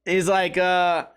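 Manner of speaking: normal talking voice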